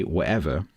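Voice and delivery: "whatever" with the T all but gone; almost absent glottal stop. Shown as a demonstration. Londoner showing their own glottal stop, almost non-existent. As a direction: say "whatever" with only the faintest throat catch. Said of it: "it's almost not there".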